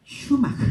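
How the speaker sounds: "shumak" with sh at the start; Cañari sh sound. Shown as a demonstration. Showing listeners how the Cañari say "shumak", with sh. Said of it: "no dicen".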